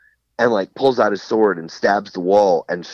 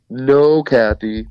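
haunting voice; 3 semitones higher than usual. Retold or imitated. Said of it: "he, like, talks in a very haunting voice".

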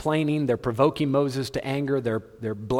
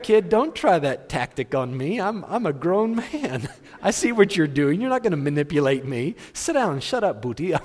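stern dad; 5 semitones higher, 3 dB louder than usual. Retold or imitated. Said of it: "You're like".

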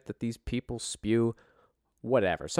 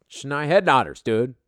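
amused; 3 semitones higher, 6 dB louder than usual. Real, not acted. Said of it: "I laugh every fucking time".

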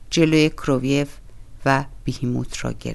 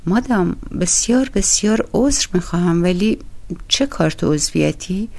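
raised, polite astonishment; surprised; 5 semitones higher than usual. Acted. Koroviev, surprised, questions the doorkeeper woman politely. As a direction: act puzzled and overly courteous. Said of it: "کروویف با تعجب پرسید".

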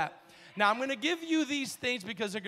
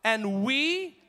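slow, raised lead-in for a crowd; slow reading; 3 semitones higher, 5 dB louder than usual. Shown as a demonstration. Preacher leads congregation reading together, slow emphatic reading. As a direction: give each word room, loudly. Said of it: "read this slowly".

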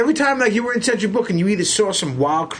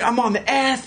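excited fan; 6 semitones higher than usual. Retold or imitated. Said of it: "this guy was a fan".

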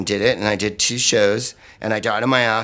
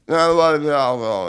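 higher, louder mocking taunt; drunk heckler; 3 semitones higher, 3 dB louder, slower than usual.

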